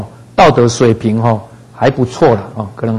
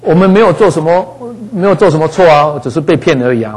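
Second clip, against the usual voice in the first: imitated protest; 3 semitones higher than usual. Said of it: "他是跟神这样抗议".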